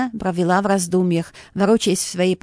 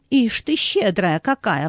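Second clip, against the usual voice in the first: indignant; slower than usual. Acted. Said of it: "возмутился Алексей".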